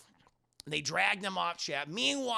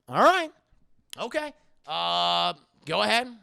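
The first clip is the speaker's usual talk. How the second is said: reluctant giving in; 7 dB louder than usual. Acted. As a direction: give in with voice pitched way up. Palpatine gives in, comic voice.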